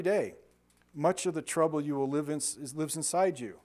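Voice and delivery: measured, emphatic reading aloud; devotional reading. Real, not acted. Preacher reading a devotional to listeners, measured emphatic reading. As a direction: read it out firmly, phrase by phrase.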